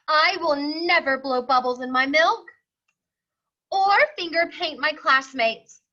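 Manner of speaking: lightly voiced eager child promising; earnest little boy. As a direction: plead like a small boy making promises. Rufus pleads his case.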